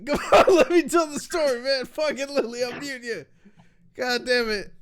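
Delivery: real frustration, pitched high; exasperated protest. Real, not acted. Storyteller to heckling friends, exasperated.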